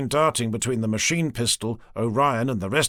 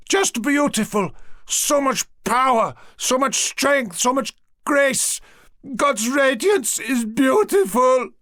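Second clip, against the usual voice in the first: high, slow, loud ecstatic cries; maniacal rapture; 12 semitones higher, 4 dB louder than usual. Acted. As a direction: overcome with holy joy, drawing it out. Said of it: "with a grin as maniacal".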